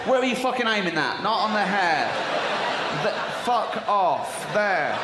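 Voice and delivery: hammed-up shout at a partner; mock angry shout. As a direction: snap at him to aim elsewhere. Yelling at partner aiming.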